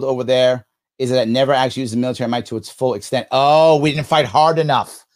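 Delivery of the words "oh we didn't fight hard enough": slow, louder mocking "Oh, we didn't fight hard enough"; sarcastic mock quote. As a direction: drag out the opponent's claim in scorn. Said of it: "See that?".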